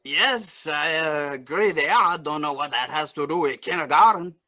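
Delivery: lightly put-on Cajun accent. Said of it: "you still have to use your Cajun accent".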